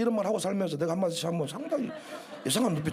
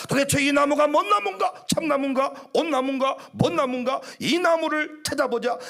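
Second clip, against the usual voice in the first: eager wondering; 3 semitones higher, 3 dB louder than usual. Retold or imitated. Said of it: "이렇게 하신 분들이 많아".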